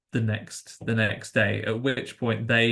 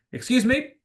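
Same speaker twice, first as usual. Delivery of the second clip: Charles Dance. Retold or imitated. Polite stand-in rescuer explaining to the college kids, lightly mock-refined. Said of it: "Tucker and Charles Dance".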